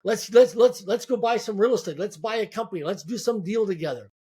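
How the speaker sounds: rushing to pitch deals, fired up; keen mock enthusiasm with repeated starts; excited. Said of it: "I get excited and I'm like".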